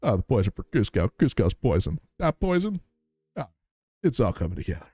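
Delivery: a lightly put-on scheming cartoon emperor voice; hint of Kuzco fretting over the poison; Kuzco impression. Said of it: "It's a very fun impression".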